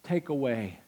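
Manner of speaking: quiet, low, solemn command; hushed Jesus quote. Acted. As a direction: say it softly, like a secret order. Jesus's words voiced quietly.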